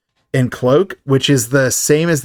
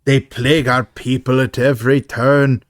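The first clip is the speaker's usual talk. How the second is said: put-on light Irish movie accent. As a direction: quote it with a hint of an Irish accent. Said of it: "That's my best Irish accent".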